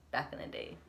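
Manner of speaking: "back in the day" breathed out softly like a lightly voiced old-timer; old person voice. Shown as a demonstration. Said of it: "I sound like an old person".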